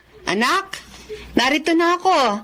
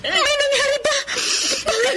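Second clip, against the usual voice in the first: higher, crying alarm at her daughter; alarmed tearful mother; 4 semitones higher than usual. Acted. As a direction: panic rising as she sees her. Mother finds daughter crying, undressed. (nababahalang ina, naluluha)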